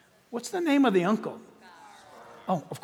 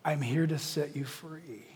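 softer, lower, disbelieving echo; incredulous repeat; 4 semitones lower, 5 dB quieter than usual. Shown as a demonstration. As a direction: repeat the lie back in quiet disbelief.

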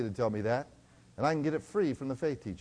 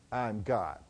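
hesitant mock Shirley, softer and lower; timid, unconvinced; 5 semitones lower, 6 dB quieter than usual. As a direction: say it weakly, not believing it. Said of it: "say it like you mean it".

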